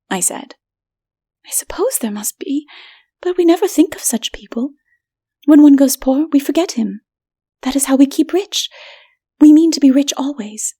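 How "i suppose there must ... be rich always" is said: higher, haughty voice; proud city woman. A narrator's reading. Bulika woman explaining to stranger, haughty. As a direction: dismiss the poor lightly.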